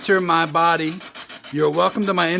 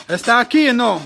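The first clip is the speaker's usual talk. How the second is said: calling out; 6 semitones higher, 6 dB louder than usual. Real, not acted. Calling out to a spirit.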